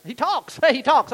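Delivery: high, loud laughing jeer; laughing classmates. Retold or imitated.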